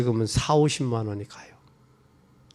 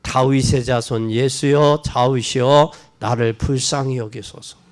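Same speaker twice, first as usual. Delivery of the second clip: pleading call. Retold or imitated. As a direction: beg the passing Jesus. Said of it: "더욱 심히 소리질러". (지나가는 예수께 드리는 간청)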